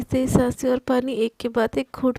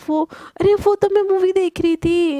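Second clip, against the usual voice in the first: बात टालते हुए; 5 semitones higher than usual. Acted. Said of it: "ऐसे बात टालते हुए".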